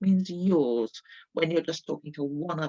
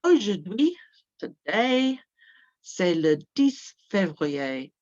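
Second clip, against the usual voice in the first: slow modelling; 3 dB louder, slower than usual. Shown as a demonstration. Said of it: "teacher models slowly".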